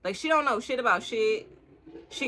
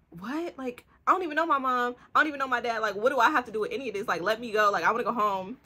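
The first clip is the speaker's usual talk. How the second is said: mock-innocent pleading, pitched higher; whiny confused girl; 4 semitones higher, faster than usual. Mila protesting her kidnapper, high mock whine. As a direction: play the clueless girl begging to leave. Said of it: "and she's like".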